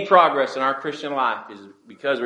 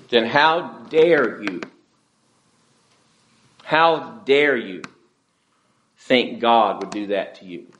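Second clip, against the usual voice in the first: slow, drawn-out indignation at normal pitch; outraged; 2 semitones lower than usual. Acted. Congregation outraged at God over Uriah's death, slow indignant challenge. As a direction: stretch out HOW and DARE, mildly outraged. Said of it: "we are outraged by it".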